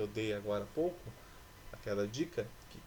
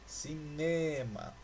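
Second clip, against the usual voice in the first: "Cinema" slowly, stretching the middle syllable NE; stress on NE; 3 semitones higher, much slower than usual. Shown as a demonstration. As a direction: draw out the NE in "Cinema". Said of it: "Essa também não é". ("Cinema" devagar, com NE alongado)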